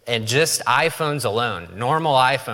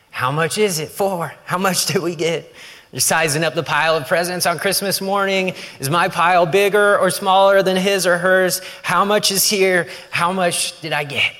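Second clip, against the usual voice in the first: put-on greedy excited kid; 7 semitones higher than usual. Kid sizing up presents.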